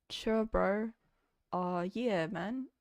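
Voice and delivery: attempted broad Kiwi accent, slipping toward Jamaican; hesitant, put-on Kiwi accent; thicker Kiwi accent. Shown as a demonstration. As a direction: try laying on a New Zealand accent. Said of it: "can you make your accent thicker after this".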